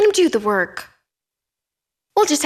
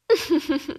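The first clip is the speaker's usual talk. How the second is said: higher-pitched run of short chuckles; scheming chuckle; 4 semitones higher, 3 dB quieter than usual. Acted. Plotter planning a dinner invitation, chuckling. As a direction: chuckle over your own plan.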